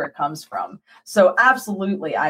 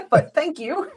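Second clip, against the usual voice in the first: laughing thanks; 11 semitones higher than usual. Retold or imitated. Mock polite end, laughing.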